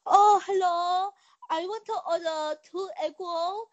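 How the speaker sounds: put-on caricatured Asian accent on a prank call; fake Asian accent. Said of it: "fake Asian accent".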